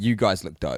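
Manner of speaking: normal talking voice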